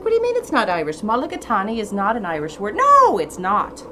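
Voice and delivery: mock-outraged nitpicker; mock indignant. Voices objecting purists arguing.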